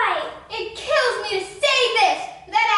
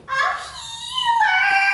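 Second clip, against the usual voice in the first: high, slow triumphant punchline; hammed-up punchline; 14 semitones higher, slower than usual. Nurse telling her pun joke, hammed up and high. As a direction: deliver the pun proudly.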